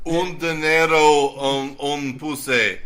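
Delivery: slow, halting mock Russian accent; playful Russian accent put-on. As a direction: drag the words out in a joking Russian accent. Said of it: "I don't know why I'm Russian all of a sudden".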